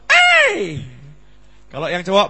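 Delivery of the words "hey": casual hey. Retold or imitated. Casual greeting imitated.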